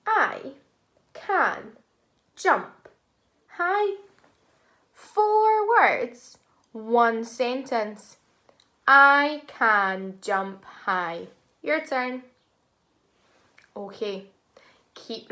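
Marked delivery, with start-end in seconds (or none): 0.1-4.0 I, can, jump, high each said alone; word by word counting. Shown as a demonstration. Teacher counts four words aloud, one at a time. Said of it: "Let's count and see how many words". 8.9-11.3 slow, word by word; slow counted words. Shown as a demonstration. Teacher counts words with class, slow and deliberate. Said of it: "Let's count and see how many words".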